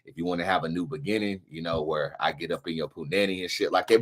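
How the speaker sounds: a lightly voiced smooth-talker. The speaker pitching his spell to the ladies, low and soft. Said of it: "Brandon, go ahead".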